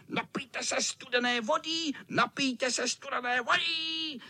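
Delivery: high, teasing cat voice; sing-song taunt from a naughty cat; high cat voice calling a mocking offer. A narrator's reading. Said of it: "a křičel".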